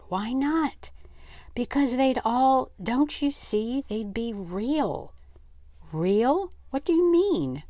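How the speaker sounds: high, loud insistent questions; boy protesting, high and loud; agitated. Acted. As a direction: push back, worked up. Boys arguing, rising pitch.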